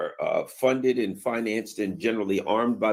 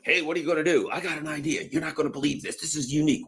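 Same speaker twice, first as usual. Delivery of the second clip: lightly voiced scheming official, pitched up; mock government planner; 6 semitones higher, faster than usual. Officials pitching a color revolution to each other, raised mock voice. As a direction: sell a stale plan as a brilliant new idea. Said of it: "They're like".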